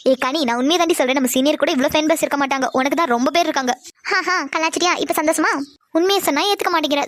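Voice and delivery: put-on teasing girlfriend voice. Teasing friend Pavi voiced lower. (தோழியை கேலி செய்யும் தாழ்ந்த குரல்)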